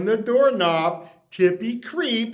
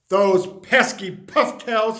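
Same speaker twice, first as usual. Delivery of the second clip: fuming; 3 dB louder than usual. Acted. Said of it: "fumed Mister McGreely".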